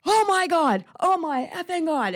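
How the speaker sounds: high, loud mock-shriek of amazement; retold fangirl yell. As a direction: yell it out as the stunned star. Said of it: "she just yelled".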